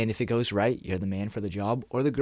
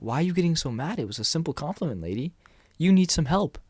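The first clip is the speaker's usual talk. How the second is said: standing up for yourself, mildly indignant, pitched up; confident pushback; 5 semitones higher, faster than usual. Pretend. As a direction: push back at an overreaction, higher, with a touch of disbelief. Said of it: "I had the confidence to stand up for myself".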